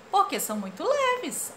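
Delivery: mother's high answer. Retold or imitated. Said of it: "a mãe disse".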